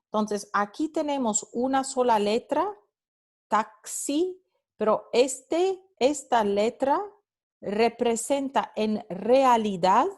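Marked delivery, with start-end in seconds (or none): 3.5-4.4 taxi said with a clear KS sound; pronouncing taxi. Shown as a demonstration. Teacher modelling the word for students, clear KS in taxi. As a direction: spell out the x in taxi as k plus s. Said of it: "en palabras como taxi".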